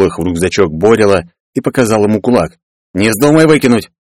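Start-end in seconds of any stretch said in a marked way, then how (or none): 2.9-3.9 threatening warning. Acted. Threatens Boril with fist.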